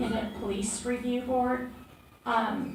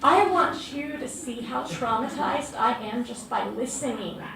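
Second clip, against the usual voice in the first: emotional, fearful testimony; 3 semitones higher, 4 dB louder than usual. Real, not acted. Activist testifying to police commissioner, raised, distressed and pleading. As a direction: let the fear and hurt spill into every word. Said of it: "hear the emotion and the trauma and the fear in my voice".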